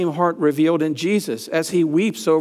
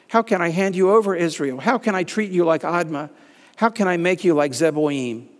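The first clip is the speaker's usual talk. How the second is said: higher, louder and hurried pleading; distressed plea; 4 semitones higher, 3 dB louder than usual. Acted. Preacher voicing God refusing to give Israel up, distressed. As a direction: ache over each question. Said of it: "God's response, distress".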